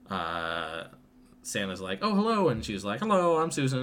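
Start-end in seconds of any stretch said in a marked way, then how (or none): 2.0-2.5 high, louder cheery greeting; jolly Santa voice. Retold or imitated. Santa greeting Susan, in a high, jolly voice. 3.0-3.8 put-on high, louder child's voice; little girl voice. Susan introducing herself to Santa, in a high child voice.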